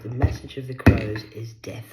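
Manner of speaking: message punched loud and ominous; loud ominous declaration. Shown as a demonstration. Warning the viewer, loud and ominous. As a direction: boom it out like a prophecy. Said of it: "repeated phrase, loud take".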